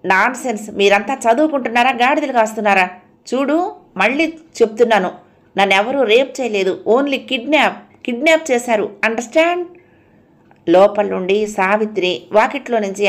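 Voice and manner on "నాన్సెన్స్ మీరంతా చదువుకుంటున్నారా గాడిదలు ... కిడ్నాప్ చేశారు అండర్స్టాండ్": indignant, higher-pitched scolding; almost shouting. Acted. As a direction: rail at him, pitch up. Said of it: "అర్చన అరిచినట్టుగా అంది".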